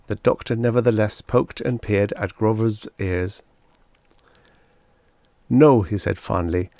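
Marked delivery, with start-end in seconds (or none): 5.5-5.8 verdict. A narrator's reading. Doctor's verdict.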